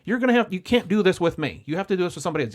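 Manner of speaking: firm refusal. Retold or imitated. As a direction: lay down the rule firmly.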